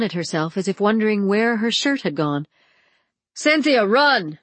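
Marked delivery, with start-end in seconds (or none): 3.3-4.4 urgent shout. A narrator's reading. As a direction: shout the warning. Gert calling out.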